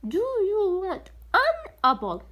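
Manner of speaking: slow demo question; slow model question. Shown as a demonstration. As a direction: stretch the question out for learners. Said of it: "ناخذ سؤال ثاني عن الأبل".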